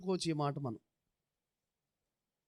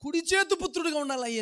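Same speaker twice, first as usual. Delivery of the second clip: a pleading prayer that climbs higher and louder; anguished prayer cry; 4 semitones higher, 4 dB louder than usual. Retold or imitated. Jacob grieving his wife, crying out to God, rising plea. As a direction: build from a plea to a crying appeal. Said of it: "అని ఆ ఆక్రందనలో".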